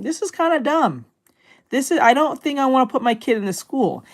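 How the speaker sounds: a hint of a fed-up parent, lightly voiced; imitating a fed-up parent. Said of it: "a lot of people start realizing".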